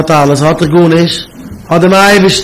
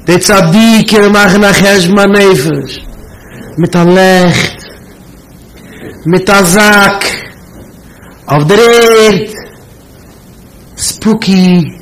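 slow, high, drawn-out eerie telling; mock spooky; 3 semitones higher, slower than usual. Retelling a scary message heard as a child, mock spooky. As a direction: stretch each phrase out ominously.

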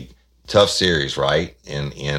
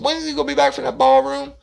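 a raised, louder voice for the man calling; brash caller; 6 dB louder, faster than usual. Retold or imitated. Prank caller demanding to know where Johnson is, loud. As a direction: push it out like a pushy caller.

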